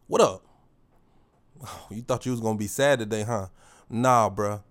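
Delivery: hyping up his own reflection, tough and loud; thuggish affirmation. Shown as a demonstration. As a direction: talk to the mirror like a hard street guy. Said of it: "real thuggish".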